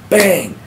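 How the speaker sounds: slamming-door bang. Retold or imitated. Ex-prisoner imitating his cell door slamming, loud bang.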